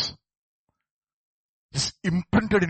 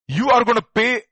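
mock threat; 6 semitones higher, 7 dB louder than usual. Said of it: "They say".

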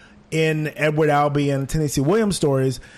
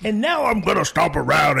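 higher, put-on cutesy voice mocking the actors; 4 semitones higher than usual. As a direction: parody a ham trying baby voice. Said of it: "They'd be like".

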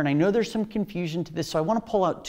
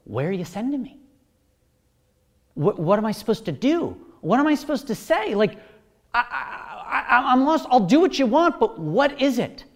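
high, loud, bewildered questions; flustered disciple; 7 semitones higher, 5 dB louder than usual. Retold or imitated. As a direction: play a lost disciple scrambling for orders. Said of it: "the disciples would be asking".

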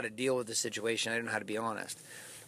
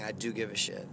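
softer, lower sincere admission; 5 semitones lower, 6 dB quieter than usual. Shown as a demonstration. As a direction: admit it quietly and honestly. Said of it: "maybe you should start saying".

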